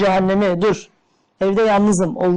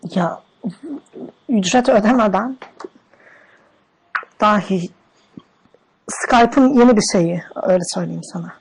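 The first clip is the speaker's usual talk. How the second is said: man doing a woman's voice. Pretend. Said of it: "Oğlum ben kadın sesi yapamam ki".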